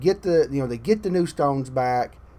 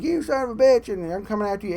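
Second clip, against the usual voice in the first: a sudden high, hammed-up curse at an opponent; mock angry gamer yell; 7 semitones higher, faster than usual. Ranting about Hulk, mimicking an angry online gamer: mock yell. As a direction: snap it out like a mocking trash-talking gamer, then drop away.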